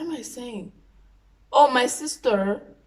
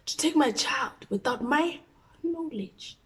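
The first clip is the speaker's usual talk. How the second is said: angry mom; 6 semitones higher than usual. Retold or imitated. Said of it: "She's like".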